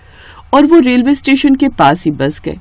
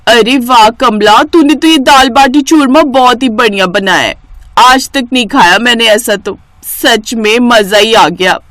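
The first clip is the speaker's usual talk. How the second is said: delighted praise; 3 dB louder than usual. Acted. Mistress praises Kamla's cooking.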